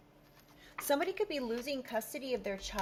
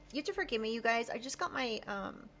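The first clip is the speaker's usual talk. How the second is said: lisping around aligner attachments; speech slightly thick from tooth attachments; talking with Invisalign attachments. Real, not acted. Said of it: "and so I'm talking funny".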